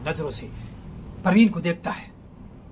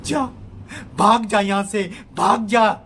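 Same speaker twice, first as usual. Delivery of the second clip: loud, higher furious command; angry shout; 5 semitones higher, 6 dB louder, slower than usual. Acted. Neeraj shouting at Parveen to get out. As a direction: chase him out with your voice. Neeraj throws out his friend.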